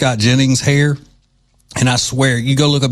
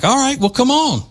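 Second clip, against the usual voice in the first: imitating the stranger; 13 semitones higher than usual. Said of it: "the guy was like".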